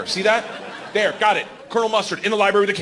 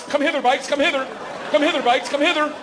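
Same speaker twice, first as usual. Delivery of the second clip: high, sing-song coaxing; mock seductive call; 10 semitones higher than usual. Man sneaking to the garage, high theatrical come-hither. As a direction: beckon like a hammy seducer. Luring bikes in sex bit.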